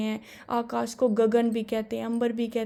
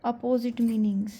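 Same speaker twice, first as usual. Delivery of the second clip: slow, word by word dictation; much slower than usual. Shown as a demonstration. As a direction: dictate it slowly to the class. Teacher dictating definition slowly. (बहुत धीरे लिखवाना)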